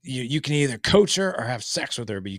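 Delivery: put-on playful take on a Scottish accent. Scottish guest gives husbands the either-or, imitated Scottish accent. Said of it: "this really cool Scottish accent".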